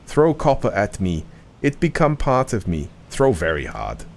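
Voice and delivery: a hint of a lumbering golem talking; simple-minded golem. Golem dialogue continues.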